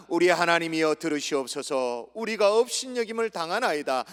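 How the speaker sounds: steady congregational reading; scripture reading. Shown as a demonstration. Preacher leads the congregation in reading verse four, measured recitation. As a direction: read the verse out at a measured pace. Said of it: "사 절 읽습니다".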